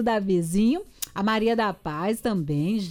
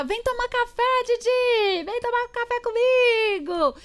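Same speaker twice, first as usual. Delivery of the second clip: sweet high sing-song invite, much higher; imitating a friend's invitation; 11 semitones higher than usual. Host imitating a listener inviting her to coffee, high sing-song. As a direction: coax like the friend calling you to breakfast.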